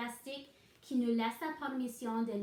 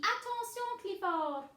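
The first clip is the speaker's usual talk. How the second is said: retold warning; 8 semitones higher than usual. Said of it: "la fille ici ... dit".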